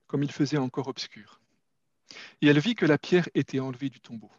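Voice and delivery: measured reading of the Gospel; scripture reading. Acted. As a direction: read it aloud like a lesson in church. Reads John 20 aloud.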